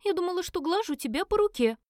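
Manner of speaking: put-on high, flustered girl's voice; Элис frightened squeak. A narrator's reading. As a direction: squeak it out in a panic. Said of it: "испуганно пропищала Элис".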